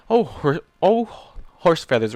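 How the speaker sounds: loud groaning Rainbow Dash. Acted. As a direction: groan it out, exasperated. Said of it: "Rainbow groaned".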